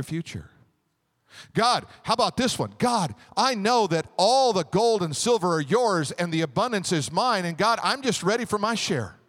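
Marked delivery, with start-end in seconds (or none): 1.5-9.2 confident prayer. Shown as a demonstration. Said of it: "Or you can say it this way".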